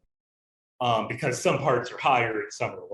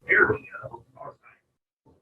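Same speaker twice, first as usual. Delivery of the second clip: distant and echoey, half whispered; muttering far from the mic; dome echo; 4 dB louder, slower than usual. Real, not acted. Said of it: "you might not be able to hear anything".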